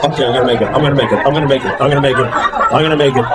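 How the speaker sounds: low, repetitive self pep talk; acted self-reassurance. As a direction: chant it low to keep yourself together. Muttered self-reassurance while holding on.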